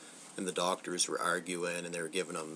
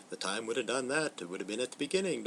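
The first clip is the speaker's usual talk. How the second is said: higher mock doctor voice, fast at the end; lightly voiced mad scientist, pitched up; imitating the doctor; 5 semitones higher, faster than usual. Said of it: "and Frankenstein's like".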